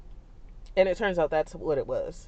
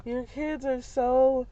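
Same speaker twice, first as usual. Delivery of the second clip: lightly voiced old lady, pitched higher; mock the sweet stranger gushing over the kids, higher; 8 semitones higher than usual. Elderly stranger complimenting the kids, high gushing voice. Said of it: "And then she's like".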